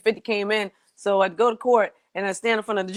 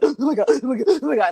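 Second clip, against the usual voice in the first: upset; 6 semitones higher, 3 dB louder, faster than usual. Retold or imitated. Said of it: "I'm so upset and I'm like".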